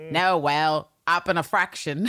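lightly imitated co-host's character voice; a hint of someone else's acting style; Terrence. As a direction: play it as a light impersonation. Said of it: "do my best Terrence impersonation".

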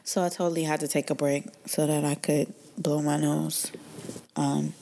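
unvoiced whispered aside; whispering. Real, not acted. Aside after blowing her nose.

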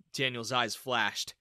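ordinary delivery, nothing marked

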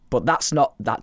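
normal talking voice

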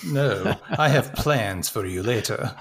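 put-on slow Eastern European accent. Roger Moore to his passenger, accidental Eastern European accent. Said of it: "Why did I go Eastern European with the accent?".

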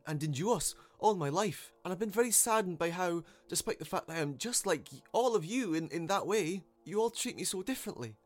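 high, loud, halting appeal; saddened unicorn. A narrator's reading. Unicorn addressing those who jeer, hurt and earnest. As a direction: plead earnestly with a hostile crowd.

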